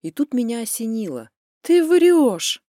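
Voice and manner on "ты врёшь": high, loud "you're lying!"; accusing outburst. A narrator's reading. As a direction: blurt it out as an accusation. Марьяна внезапно обвиняет его. (громко, обвиняюще)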